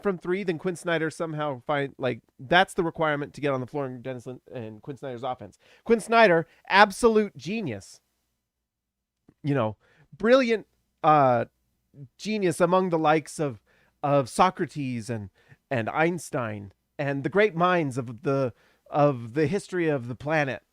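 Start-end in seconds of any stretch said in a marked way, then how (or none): 5.8-15.1 sarcastic. Acted. Mock praise of the coach.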